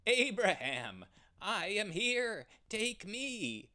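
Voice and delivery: very high, loud pleading; struggling cry. Acted. The trapped ram cries to Abraham, very high and loud. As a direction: cry out while caught. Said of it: "The ram struggled and cried".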